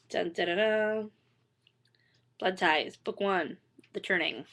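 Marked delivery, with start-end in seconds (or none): none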